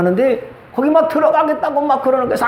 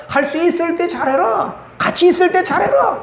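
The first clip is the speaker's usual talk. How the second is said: higher, ringing preacher command; emphatic exhortation; 8 semitones higher than usual. Acted. Pastor exhorting the congregation with scripture, raised and ringing. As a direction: proclaim it to the congregation.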